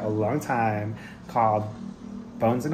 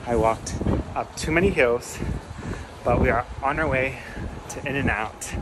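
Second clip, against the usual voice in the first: out of breath. Real, not acted. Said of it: "If it sounds like I'm out of breath, it's because I am".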